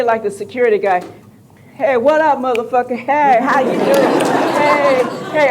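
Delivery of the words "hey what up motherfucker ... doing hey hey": higher, hollered swaggering greeting; retold hearty call-out. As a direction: holler hellos across a parking lot. Retold greeting across parking lot.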